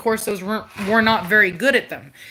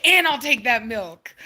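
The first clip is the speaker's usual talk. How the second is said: voicing the puppy through laughter; laughing puppy voice. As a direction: laugh while speaking for the pup. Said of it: "She's like".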